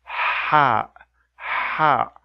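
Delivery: "ha" with a throaty pharyngeal h, squeezed friction; Arabic ha. Shown as a demonstration. Teacher contrasting the Arabic ha with English h. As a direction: tighten the throat on "ha". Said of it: "while this sound is".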